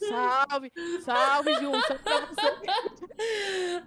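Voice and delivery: a lightly mocking alarm-clock greeting, laughing through it; imitating Jazz. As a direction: stretch out the last salve slowly while giggling. (imitação leve do Jazz como despertador, rindo e arrastando)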